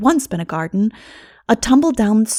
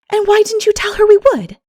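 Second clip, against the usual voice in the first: eager; 13 semitones higher, 5 dB louder than usual. Acted. Anne's eager question.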